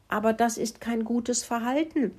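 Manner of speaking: high little mouse reproach; reproving piping. A narrator's reading. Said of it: "fiebte Mokelinchen". (hoch gepiepster Tadel)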